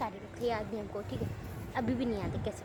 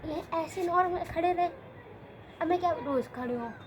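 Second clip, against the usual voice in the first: exasperated protest; 2 semitones higher than usual. Retold or imitated. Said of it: "मैंने कहा".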